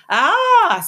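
high loud frightened yelp; startled cry. Acted. Boots shrieking at the rat's hiss. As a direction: shriek like a scared little child.

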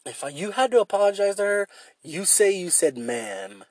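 brain talking. Retold or imitated. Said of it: "It said".

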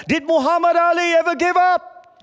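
high, rousing coach's yell. Retold or imitated. Coach in a timeout huddle, high rallying yell. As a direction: fire up the losing team with a shout. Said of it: "He yelled, he yelled".

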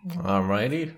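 breathy unvoiced whisper of "Alrighty.". Real, not acted. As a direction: whisper it like a secret. Whispered before drawing from hat.

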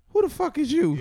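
high, loud laughing movie quote; movie quote shout. Retold or imitated. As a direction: shout the line through laughter. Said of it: "When Cuz walked through the door".

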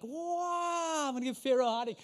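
cocky boast with a high wow; mock bravado. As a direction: brag like a pumped-up fighter. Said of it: "imagine you in the Pharaoh".

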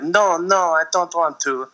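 coy protest in a put-on French accent; mock French accent. Actress refusing to undress, mock French accent. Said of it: "worst accent part of the movie".

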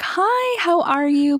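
very high-pitched, sing-out hello; chirpy greeting. Retold or imitated. Acted greeting to driving instructor.

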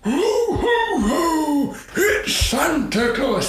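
very high, drawn-out comic Lapland accent. Shown as a demonstration. Santa showing his other accent on request, high Lapland accent. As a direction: squeal it out in a mock Lapland accent. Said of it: "Ask him to do his Lapland accent".

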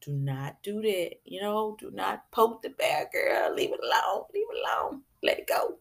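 a whispered self-warning, mostly breath; self-talk whisper. Retold or imitated. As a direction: hush yourself, leave it alone. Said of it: "I have to be like".

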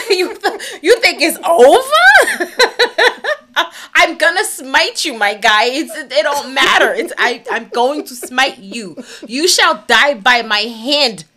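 hammed-up villain taunt; laughing villain threat. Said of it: "he was like".

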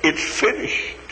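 a breathy whisper; echoing whisper. A narrator's reading. Heaven's corridors echoing it, whispered. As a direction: let it echo in a hush. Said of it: "echoes the voice down the corridors".

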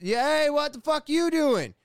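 high, loud heckling yell; imitated yelling. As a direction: holler like the kid on the roof, trailing into blahs. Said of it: "and he's yelling".

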